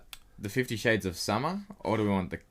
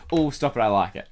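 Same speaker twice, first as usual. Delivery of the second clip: coy catchphrase; 2 semitones higher, 7 dB louder than usual. Retold or imitated. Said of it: "famous catchphrase".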